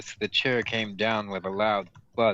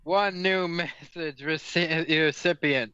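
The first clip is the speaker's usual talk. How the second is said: slow flat computer readout; robot voice, no expression; monotone robot voice; 4 semitones higher than usual. Acted. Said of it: "It spoke in a monotone male voice".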